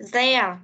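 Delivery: there said slowly and clearly; the word there, carefully spoken; pronouncing there. Shown as a demonstration. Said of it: "chú ý cho cô ở cái từ".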